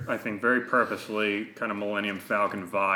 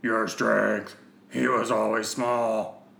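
fancy villain voice; slower than usual. Acted. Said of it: "a big fancy character to do".

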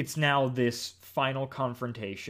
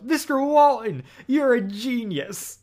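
yelling; 12 semitones higher, 7 dB louder than usual. Retold or imitated. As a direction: shout the praise up high. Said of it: "Eugene yells".

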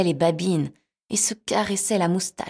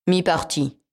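cat voice; 4 dB louder, slower than usual. Acted. Cat answers name.

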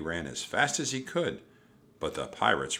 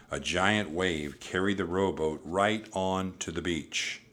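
plain reading voice

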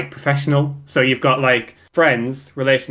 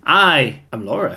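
imitating Laura; 2 semitones higher, 3 dB louder than usual. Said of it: "Sounds not that much like Laura".

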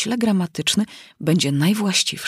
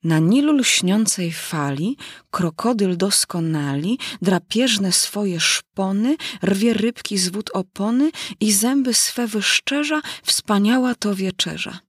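slow singsong poem recital with lifted line endings; reciting a verse. Acted. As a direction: recite it like a schoolchild's rhyme, drawing out the words. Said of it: "jak tam pójdzie z wierszykiem".

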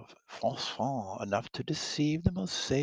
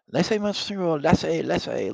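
higher, louder French protest; flustered princess protest; 7 semitones higher, 6 dB louder than usual. Acted. Catherine protesting as Henry kisses her hand, higher and flustered. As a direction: push him off, flustered.

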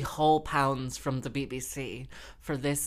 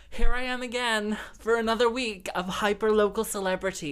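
grand announcement; 6 semitones higher, 6 dB louder than usual. Retold or imitated. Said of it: "And I'm like".

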